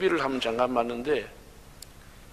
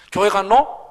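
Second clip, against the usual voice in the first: 갔노 said loudly as a mock mistake; wrong Gyeongsang form; 3 semitones higher, 9 dB louder, slower than usual. Shown as a demonstration. Mocking Seoul actors' dialect mistake, loud. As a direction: show the outsider's error. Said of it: "갔노 하는 놈 한 놈도 없습니다".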